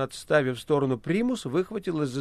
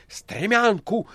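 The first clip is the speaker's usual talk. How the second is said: shout; 5 semitones higher, much slower than usual. Acted. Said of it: "крикнули снизу".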